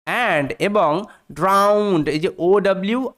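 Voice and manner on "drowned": drowned with OW as in "out"; OW sound in drowned. Shown as a demonstration. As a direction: say drowned slowly, open OW vowel. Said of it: "আউ sound দিচ্ছে".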